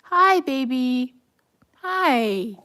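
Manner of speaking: slow, high, loud coo to a pet. Real, not acted. Greets her dog in a photo.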